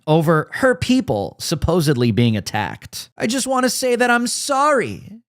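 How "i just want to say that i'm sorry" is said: higher, whiny fake-crying voice; mock her tearful apology; hammed-up tearful imitation; mock sobbing. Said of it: "she sobbed".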